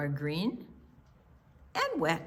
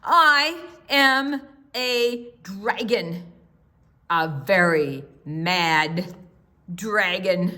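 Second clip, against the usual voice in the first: slow, louder, stubborn dragon; upset dragon; 5 dB louder, slower than usual. Acted. The dragon, fed up with the frogs, says it slowly and louder. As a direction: plant each word like a sulking dragon. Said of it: "He's getting a little upset here".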